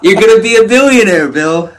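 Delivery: high, quick words through laughter; laughing. Real, not acted. Friend telling Bill he'll be rich, laughing. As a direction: hype your friend while cracking up.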